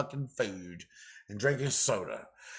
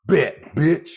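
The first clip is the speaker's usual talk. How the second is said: yelled hard, spitting the insult; angry shout; 6 semitones higher, 13 dB louder than usual. Real, not acted. Ranting at the caseworker through the camera, furious shout. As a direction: blast it at her, furious.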